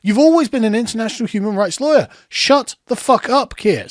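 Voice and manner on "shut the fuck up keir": slow, fed-up angry order; real anger. Real, not acted. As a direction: spit it out slowly, truly fed up. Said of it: "this is really pissing me off".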